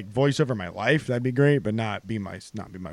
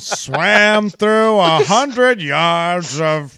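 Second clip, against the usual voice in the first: very slow mock narrator; hammed-up Freeman drawl; bad Morgan Freeman impression; 4 dB louder, slower than usual. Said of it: "I said Morgan Freeman".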